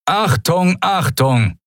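high-pitched alarm announcement; thundering loudspeaker voice. A narrator's reading. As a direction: call it out like a PA warning. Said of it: "donnerte plötzlich die Stimme eines Menschen über versteckte Lautsprecher". (donnernde Lautsprecherdurchsage)

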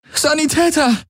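high, urgent call for a medic. A narrator's reading. Kirai calls for a medic over the fallen soldiers. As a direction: cry out across the battlefield. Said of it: "rief sie".

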